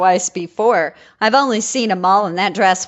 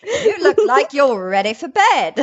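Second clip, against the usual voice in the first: posh Philip voice; 4 semitones higher than usual. Pretend. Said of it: "my very posh Philip voice".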